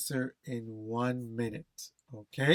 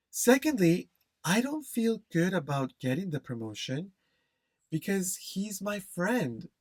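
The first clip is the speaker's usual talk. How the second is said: clear, continuous exam answer to the boss; model answer read. Shown as a demonstration. Teacher models the sample answer for students, clear and flowing. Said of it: "So I'm gonna speak it in one minute".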